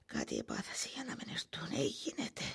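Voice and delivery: anxious whisper to herself. Acted. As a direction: whisper it, full of worry. Old woman worrying alone at night. (ψιθυριστά, ανήσυχα)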